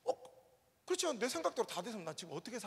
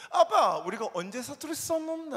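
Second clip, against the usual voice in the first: higher, lightly voiced little girl in Busan dialect; daughter's Busan dialect; 7 semitones higher, 10 dB louder than usual. 사투리를 모르는 딸을 흉내 내며 부산 사투리로 묻기. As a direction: mimic the daughter's innocent Busan dialect question. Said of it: "그게 바로 사투리냐나".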